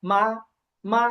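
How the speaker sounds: "মা" said plainly with no tone; an ordinary, toneless "মা"; neutral tone. Shown as a demonstration. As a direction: say "মা" short and unstressed, as a neutral syllable. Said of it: "একেবারে normal".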